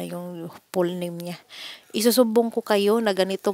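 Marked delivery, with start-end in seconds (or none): 1.9-3.5 louder, heated threat to report them; retold angry threat to the employers. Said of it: "galit na galit talaga ako".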